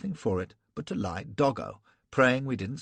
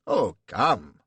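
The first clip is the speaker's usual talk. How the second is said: louder German exclamation; cries; 6 dB louder than usual. Acted. German prince protesting loudly, lightly lisped. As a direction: cry out in protest. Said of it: "cries the prince".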